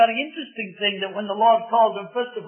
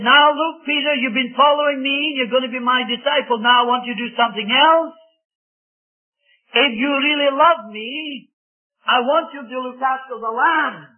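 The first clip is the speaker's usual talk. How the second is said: earnest charge; 4 semitones higher, 4 dB louder than usual. Acted. Preacher voices Jesus commissioning Peter.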